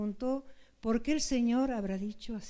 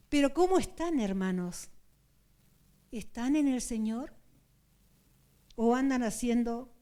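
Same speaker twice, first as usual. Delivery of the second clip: earnest sermon voice, calling to weep; preaching. Acted. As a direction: plead with the congregation to weep. Preaching to brethren. (predicación fervorosa)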